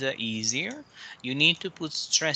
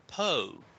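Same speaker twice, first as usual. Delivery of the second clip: po said alone and firmly; teacher isolates the stressed syllable; 4 dB quieter than usual. Shown as a demonstration. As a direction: punch the syllable po. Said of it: "Here is the stress".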